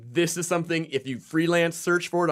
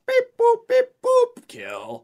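robot voice; 6 dB louder, slower than usual. Pretend. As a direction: beep like a cartoon robot and drop to a deadpan. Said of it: "the robot could be like".

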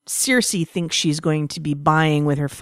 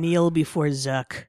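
slow theatrical villain menace; 4 dB quieter, slower than usual. Pretend. Mock supervillain decree.

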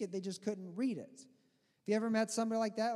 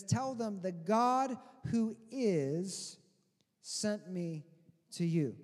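voice of God commanding; 3 dB louder, much slower than usual. Acted. God charging Moses to tell the people, slow and grave. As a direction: send Moses off with weight. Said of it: "and he says".

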